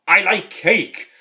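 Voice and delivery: mock senile mumble; dotty old man. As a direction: say it dreamily and slowly. Jack's nonsense reply in retelling.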